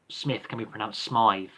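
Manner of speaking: Smythe said with a long i, rhyming with scythe; Smythe pronunciation. Shown as a demonstration. Giving a surname example, Smythe version. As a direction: say Smythe, not Smith.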